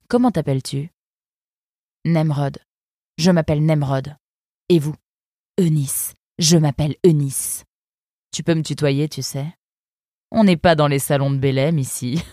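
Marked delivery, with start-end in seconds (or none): 5.6-12.2 a cool, sardonic river guard; fox guard's voice. Acted. Eunice sizing up the arrivals, lightly voiced sardonic fox. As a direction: speak down to the newcomers, unimpressed.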